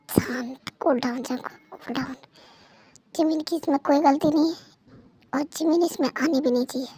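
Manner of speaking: low, soft muttering to oneself; hushed self-talk. Acted. Husband tells himself to cool down, hushed self-talk. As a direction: talk yourself down under your breath.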